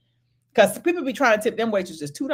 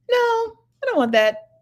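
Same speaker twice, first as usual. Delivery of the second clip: picky diner; 8 semitones higher than usual. Retold or imitated. Diner sending back food, high fussy complaint. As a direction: whine it like a picky customer.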